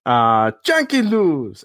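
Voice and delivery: slow, mumbled star-slugger voice, lightly put on; a quick jokey take on a ballplayer; a hint of a famous slugger, drawn out; David Ortiz voice. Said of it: "that's my best David Ortiz impression".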